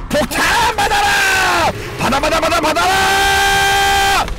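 high, slow, drawn-out shout; excited battle shout. Real, not acted. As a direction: yell it like a war cry as the bomb flies. Firing the ultimate in game.

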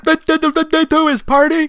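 drawn-out, halting words; mock stutter. Girl flustered by the invite, slow mock stutter. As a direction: stumble slowly over it. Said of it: "stuttering again over my words".

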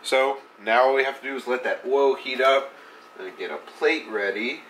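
blocked nose, congested; stuffy nose. Real, not acted. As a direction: talk through a stuffy nose. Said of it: "if it sounds like I'm super stuffy, I am".

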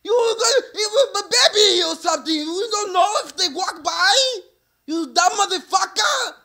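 high, furious shouting cop in a mock Asian accent. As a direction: scream at the driver like an angry foreign cop. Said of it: "He got the Asian accent".

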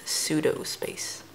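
soft, slow, unvoiced whisper; whispered repeat. Real, not acted. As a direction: whisper the card name to yourself. Repeats the card name hushed.

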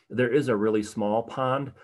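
emphasize the word "small" in the phrase; stress on small. Real, not acted. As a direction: lean on "small", giving it extra weight. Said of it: "emphasis on the word small".

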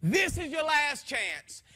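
slow, booming voice of God; a commanding divine voice, drawn out; authoritative command. Retold or imitated. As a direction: thunder it out slowly like a final warning. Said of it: "said with so much authority and so much vigor".

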